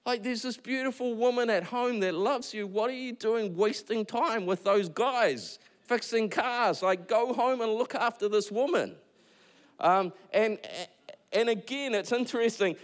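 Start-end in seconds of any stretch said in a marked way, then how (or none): 0.1-9.0 what are you doing, come on; exasperated friend pleading with a distracted husband; exasperated plea. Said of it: "And I'm like".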